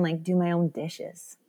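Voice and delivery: whispered, slow and longing; wistful whisper. Retold or imitated. Mother remembering the hospital, whispering her wish. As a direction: breathe it out like a quiet wish.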